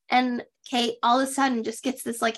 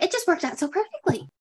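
mock amazement; 6 semitones higher than usual. Acts out Kate marveling.

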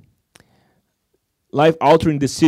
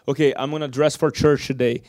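whispered mock. Mocking overboard churchgoer.

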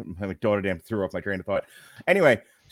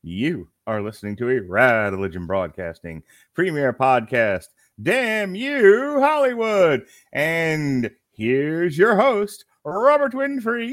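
announcer; 5 semitones higher, 5 dB louder, slower than usual. Acted. Podcast intro announcer read.

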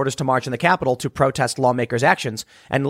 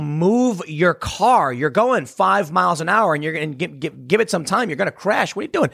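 mock yelling at drivers; 4 semitones higher than usual. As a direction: shout at a driver creeping toward a crash. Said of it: "yelling at people".

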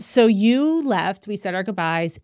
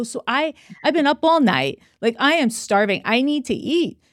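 higher-pitched retold insistence; insistent plea; 4 semitones higher than usual. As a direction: plead your case, mildly worked up. Retold pleading with nurse.

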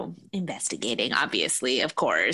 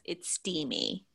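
slow, breathy whisper of "It's steamy"; 7 dB quieter, slower than usual. Shown as a demonstration. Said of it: "I remember what the word was".

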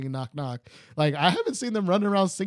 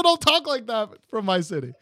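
hammed-up Texas twang; bad Texas accent. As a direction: play a suspicious Texan reading a roll call. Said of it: "do this all in a Texas accent".

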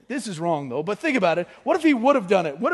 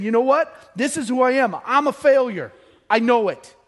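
raised, forceful retold confession; emphatic self-blame; 3 semitones higher, 4 dB louder than usual. Peter owning up to his failure, emphatic self-blame. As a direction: declare it firmly, voice lifted.

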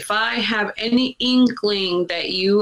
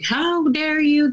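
higher, slow indignant mock scold; a higher, slower impression of mom's outrage; imitating her mother; 9 semitones higher, slower than usual. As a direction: stretch it out high like a scolding mother. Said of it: "So she's like".

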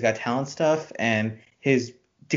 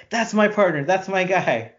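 possessive claim; 5 semitones higher than usual. Retold or imitated. Voicing Kara claiming her partner.

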